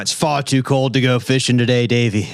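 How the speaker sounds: lightly voiced Irish lilt; a hint of a jokey Irish fisherman; half-hearted Irish accent. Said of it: "What was that accent?".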